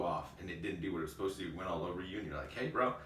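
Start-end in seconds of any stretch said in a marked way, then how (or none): 2.5-2.9 sarcastic thanks. Retold or imitated. Coworker mock-thanks after water spill.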